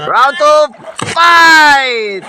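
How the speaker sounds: loud, punchy round call; fighting game announcer. Acted. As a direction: hype it like an arcade announcer. Starting round two.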